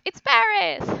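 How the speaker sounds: high thrilled announcement; Paris said high and loud with glee; excited. Shown as a demonstration. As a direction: blurt it out with joy. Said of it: "instead of".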